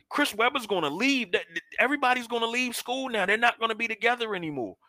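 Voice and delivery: high, pleading lament; acted childish distress. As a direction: replay an upset kid's fretting in a high voice. Acts out childhood distress to sister.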